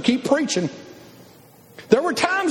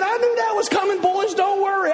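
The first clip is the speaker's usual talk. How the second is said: confident God voice; 7 semitones higher than usual. Pretend.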